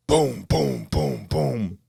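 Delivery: mock cannon booms. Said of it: "sounds like cannons going off".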